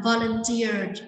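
"volunteered" slowly, ending in d; đuôi -ed đọc /d/. Shown as a demonstration. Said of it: "chúng ta sẽ phát âm là". (đọc chậm "volunteered" với âm đờ ở cuối)

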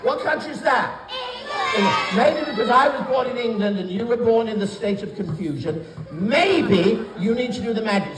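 put-on lively children's entertainer patter; bright magic show host; kids party magician.

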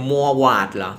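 "Mugwort" said roughly "mua-wat", as a question; questioning pronunciation. Shown as a demonstration. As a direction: check aloud whether "Mugwort" is "mua-wat". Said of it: "มันออกเสียงยังไงอะ".

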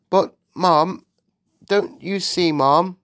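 high, halting plea; agitated maid. A narrator's reading. The maid urges the Queen to see, agitated. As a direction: urge it nervously, in short bursts.

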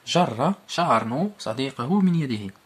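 جر، شارنو صديقه من يده read slowly with the doubled ر in جر held; teacher stressing the shadda in جر; slow emphatic reading. Shown as a demonstration. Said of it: "لاحظ كيفاش تنطق".

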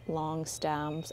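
ordinary talk, nothing marked

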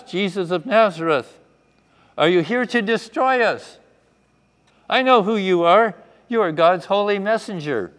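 high, very loud acted scream; screaming demon. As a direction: shout it out like a possessed man. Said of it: "screamed out in a loud voice".

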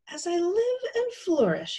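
high-pitched amazed exclamation. A narrator's reading. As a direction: marvel at a wondrous find. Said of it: "he exclaimed".

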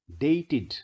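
"dated" in two syllables, "day-tid". Shown as a demonstration. Teacher gives the next example, -ed pronounced "id". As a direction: model "dated" with a clear "id" ending. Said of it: "क्योंकि इसमें भी ट sound है".

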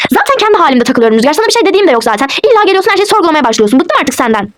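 irritated complaint, pitch jumping midway; exasperated telling-off that drops at the end; fed up. Acted. Wife fed up with questioning husband, irritated.

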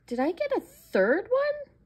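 high, disbelieving squeaky question; surprised squeak. Real, not acted. Discovers extra purchase.

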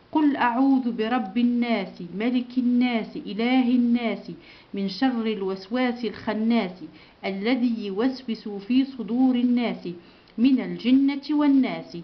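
steady chanted recitation of the Fatiha; Quran recitation. Shown as a demonstration. Teacher recites Al-Fatiha with pupils, chanted. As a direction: recite it evenly for the class to follow.

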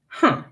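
short, sceptical grunt. A narrator's reading. Slave owner at the empty pond, grunting doubtfully. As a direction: grunt a brief "huh". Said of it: "grunted the slave owner".

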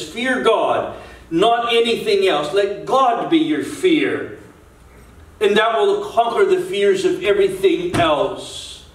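preaching exhortation. Real, not acted. Preacher urging the congregation to stand and serve God, exhorting.

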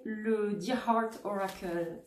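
slow, playful English accent on Dear Heart Oracle. Shown as a demonstration. Reader announcing her next oracle deck to viewers, playful English accent. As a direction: say Dear Heart Oracle like a proud anglophone, slowly. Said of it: "avec mon super accent".

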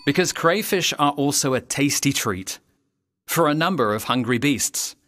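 put-on rhyming storyteller's read to young listeners; story narration. A narrator's reading. Narrator reading a rhyming crayfish tale, storytelling voice. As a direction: tell the rhyme like a children's tale.

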